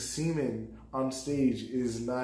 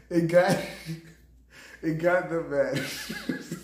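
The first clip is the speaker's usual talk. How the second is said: laughing through the words, slowed; giggling as he speaks; 3 semitones higher, slower than usual. Real, not acted. Laughing as he recounts the joke to viewers.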